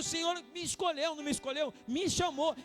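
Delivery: rising into a pained, pleading cry; David's anguished plea. Acted. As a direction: cry out to God as if no strength is left. Voicing David's desperate lament. (clamor angustiado de Davi)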